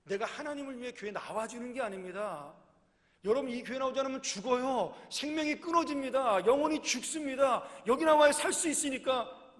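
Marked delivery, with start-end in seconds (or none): 3.3-9.6 loud, higher, impassioned preaching, slowing at the end; preaching at full force. Acted. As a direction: thunder the warning from the pulpit. Pastor urges church attendance.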